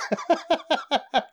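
high burst of laughter; incredulous laugh. Real, not acted. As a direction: laugh in disbelief. Laughing at the cocaine quote.

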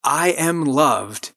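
slow, deliberate, every word weighted; slow affirmation. Shown as a demonstration. Host leading listeners in an affirmation, slow and deliberate. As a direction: lay it down slowly so they can repeat it. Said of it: "So those two together".

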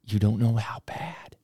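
stoner mumble. Retold or imitated. Stoned stranger telling a school worker his troubles, slow hazy mumble. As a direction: drag the words out like a stoned stranger. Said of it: "And he goes".

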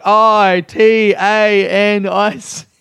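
slow spelled letters. Retold or imitated. Rose spelling out the name.

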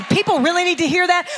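a quick, skeptical question with a rising end; mock the doubter asking it, brisk; doubting question. Preacher mimics a doubting listener, quick skeptical question. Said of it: "You say".

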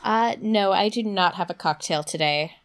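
rough, gravelly throat; hoarse from a sore throat. Real, not acted. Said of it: "my lovely, lovely, gravelly sounding voice".

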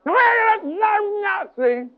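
slow, high shouted cursing; hammed-up swearing evil voice; cursing demonic voice. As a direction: spew curses in a high, drawn-out shout. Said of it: "the voice began to swear and curse".

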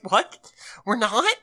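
spiral into a mock existential panic; retelling the family's sudden hammed-up freak-out. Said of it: "they just are all freaking out".

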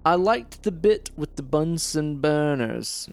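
a hint of mad scientist; reanimator voice. Shown as a demonstration. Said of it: "Like a reanimator voice".

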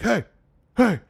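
high, loud, slow shout to break it up; dad-style shout to stop a fight; barking at them. Retold or imitated. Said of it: "I'm barking at these guys".

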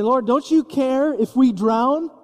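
frightened disciples begging Jesus in the boat, desperate; desperate plea. Acted. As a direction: cry out as if the boat is sinking. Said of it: "They say".

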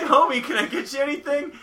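high sweet wifely voice; sweet high Marge impression. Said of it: "He's like".

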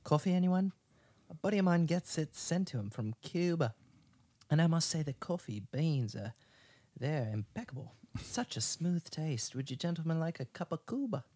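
a suave English host welcoming burglars; Freddy greets the burglars in an English accent. Acted. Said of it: "do that English one that you do really well".

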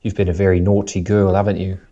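disciplining British grandma; British accent. Shown as a demonstration. Host imitating a grandma disciplining you, British accent. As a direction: scold mildly as a British granny, "haven't you?" tagged on. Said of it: "it sounds like a grandma's, like, disciplining you".

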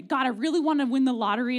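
playful loud plea for the lottery; mock loud prayer. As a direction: beg God out loud, half joking. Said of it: "of, like".

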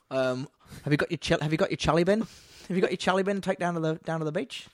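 put-on Kiwi accent, chilly bin vowels; a hint of a New Zealand accent. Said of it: "That's a New Zealand accent".

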